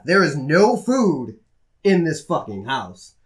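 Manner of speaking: "There is no food" dragged out slowly, word by word; slow, exasperated stress on every word of "no food"; slow emphasis. Real, not acted. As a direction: stretch NO FOOD and "fucking house" for weight. Exasperated complaint about empty house.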